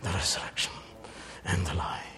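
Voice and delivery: P=A; quick, dropping quote. Acted. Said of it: "Jesus says".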